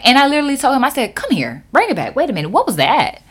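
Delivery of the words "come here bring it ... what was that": climbs to a loud, very high "what was that"; outraged confrontation. Retold or imitated. Clerk confronting manager who sided with customer, rising outrage. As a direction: build to an outraged shriek.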